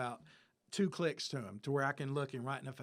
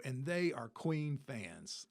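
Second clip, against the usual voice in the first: slow selling point; slower than usual. Retold or imitated. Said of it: "like that".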